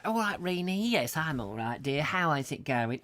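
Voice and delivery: a hint of a chatty old neighbour; lightly voiced gossip over the fence. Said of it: "my mum's neighbour was called Reenie".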